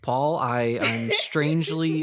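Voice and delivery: lightly done field reporter voice; a hint of an on-scene news anchor. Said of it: "my news anchor voice's mouth".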